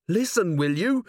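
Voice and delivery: acted exasperated appeal; urgent insistence. Carrot insists to unbelieving friends.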